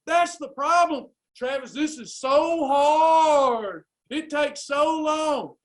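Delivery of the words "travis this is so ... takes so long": slow, drawn-out mock whine; whiny client. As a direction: imitate a complaining client, stretching the words. Mimics a client complaining.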